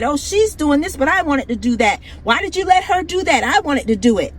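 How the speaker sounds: mildly whiny, quick mock squabble; mock bickering women. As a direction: mimic the women squabbling, only lightly voiced. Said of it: "They're gonna start bitching about who's gonna do this".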